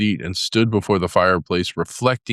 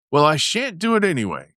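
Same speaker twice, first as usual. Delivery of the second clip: high, rising excited defiance; getting excited; 8 semitones higher than usual. A narrator's reading. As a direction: Toad working himself up. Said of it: "getting excited".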